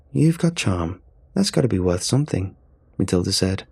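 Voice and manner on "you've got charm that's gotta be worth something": smiling voice. Acted. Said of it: "a smile in her voice".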